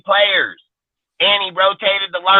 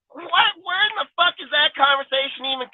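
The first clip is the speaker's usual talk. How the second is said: incredulous what; 9 semitones higher, 5 dB quieter than usual. Real, not acted. Outraged disbelief at firing talk.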